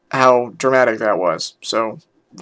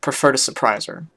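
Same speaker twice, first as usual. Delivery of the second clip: measured dramatic story reading; story narration; 4 dB quieter than usual. A narrator's reading. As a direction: read it out as an earnest first-person tale. Reads a story aloud.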